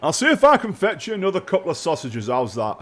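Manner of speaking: guard's put-on voice, grudgingly obliging. Guard offering prisoner sausages, grudging. Game master plays the guard.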